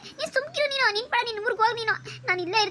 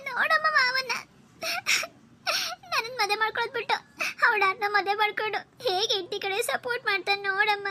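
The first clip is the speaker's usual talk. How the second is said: high-pitched weepy complaint to mother; a young woman sobbing out her grievance; tearful pleading; 3 semitones higher, 3 dB quieter than usual. Acted. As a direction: whine through tears, higher and softer. Girl crying to mother over groom.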